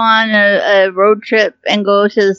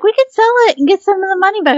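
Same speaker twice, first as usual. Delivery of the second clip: mimicking relatives; 11 semitones higher, faster than usual. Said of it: "they was like".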